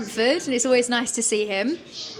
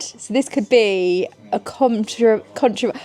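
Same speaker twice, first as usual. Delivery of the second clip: slow, stumbling with burning mouth; tongue on fire from hot sauce; 4 dB louder, slower than usual. Real, not acted. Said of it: "I can't speak because of this hot sauce".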